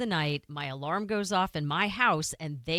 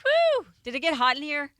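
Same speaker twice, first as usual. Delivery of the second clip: mock flustered; 7 semitones higher, 5 dB louder than usual. Joking fluster.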